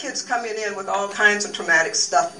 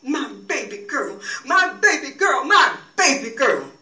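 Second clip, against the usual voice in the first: grieving; 3 semitones higher than usual. Acted. Pilate tells each mourner down the aisle, grieving. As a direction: repeat it as if barely holding together. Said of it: "told each face turned toward her".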